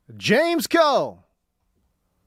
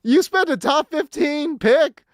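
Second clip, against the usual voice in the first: incredulous disbelief; 5 semitones higher than usual. Real, not acted. Host reacts to coach's clip.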